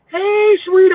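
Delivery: high, sing-song flirty greeting; flirty come-on. Retold or imitated. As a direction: coo it like a come-on at the door. Women knocking on his door.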